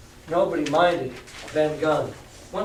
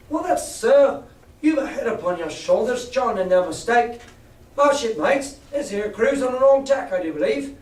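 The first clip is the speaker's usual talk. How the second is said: higher, louder sailor voice; relieved pirate; 6 semitones higher, 4 dB louder than usual. Acted. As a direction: brighten up with relief. George Merry relieved.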